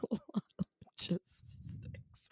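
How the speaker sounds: laughing it out. Real, not acted. Laughing echo of partner.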